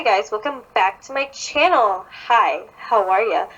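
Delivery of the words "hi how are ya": a lower, creepy how are ya; mock the creepy YouTuber hello; creepy greeting. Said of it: "in such a creepy fucking tone".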